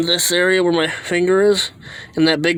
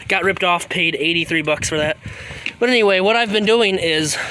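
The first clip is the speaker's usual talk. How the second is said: breathless, catching breath between phrases; winded, talking through heavy breaths. Real, not acted. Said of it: "sorry, I'm catching my breath".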